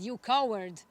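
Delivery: loud, sharp taunt; angry yell. Retold or imitated. Annoyed boy yelling insult at the echo, loud. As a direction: fling the word at the mountain. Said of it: "so he yelled again".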